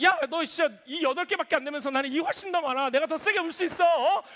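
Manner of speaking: half-joking angry boast to his daughter; mock angry threat. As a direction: pick a fight with your two-year-old. Imagined quarrel with toddler daughter.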